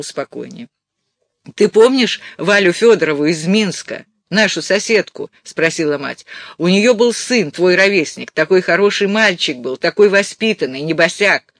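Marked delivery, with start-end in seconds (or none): 1.5-5.3 lightly voiced mother, louder; a hint of a pushy mother; chatty insistent mother. Reader plays mother. 6.6-11.5 lightly voiced mother, louder; emphatic motherly praise; insistent mother. Reader plays mother.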